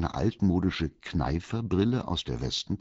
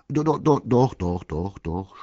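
flustered, stuttered insistence; stammering; 3 semitones higher, 6 dB louder than usual. A narrator's reading. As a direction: trip over the word repeatedly in a fluster. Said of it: "stotterte Walter".

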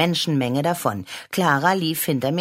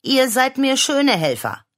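laughing; 11 semitones higher, 6 dB louder than usual. Acted. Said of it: "lachte Mama".

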